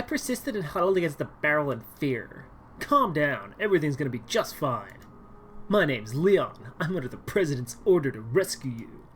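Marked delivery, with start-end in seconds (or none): 2.8-9.0 Leon voice. Acted. Leon introducing himself to the scared girl, steady and louder. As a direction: reassure her like a stoic soldier. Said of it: "that's what he sounds like".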